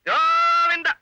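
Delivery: mock-dramatic long loud Govinda. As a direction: wail Govinda like a mock funeral cry. Father lamenting lost meal.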